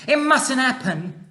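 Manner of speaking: put-on high, slow, distressed little girl; a horrified girl's outcry; alarmed cry. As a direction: plead against the danger. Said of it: "Sophie cried out".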